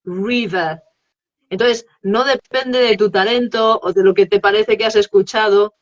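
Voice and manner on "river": "river" with a rounded English R, tongue up, not a tapped Spanish r; English R demo. Shown as a demonstration. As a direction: say "river" carefully, showing off the English R. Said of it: "Si yo quiero hacer la R inglesa".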